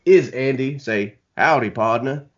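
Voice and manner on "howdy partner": lightly put-on American accent. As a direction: greet like a cowboy in a rough American accent. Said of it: "was a little American-y with my accent".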